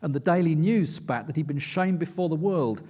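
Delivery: steady, measured reading of his own nonfiction; book reading. A narrator's reading. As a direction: read it like an audiobook narrator, building tension. Reads aloud from his book.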